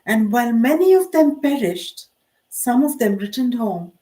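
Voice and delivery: measured poem recital with pauses between lines; poetry reading. Acted. Poet reading her own war remembrance poem aloud, measured recital. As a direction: recite it line by line, pitch lifting on each phrase.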